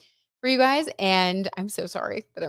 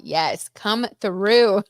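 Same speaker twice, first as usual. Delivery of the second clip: drawn-out cheer; 2 semitones higher, 5 dB louder, much slower than usual. Real, not acted. Echoing a chat comment, hyped.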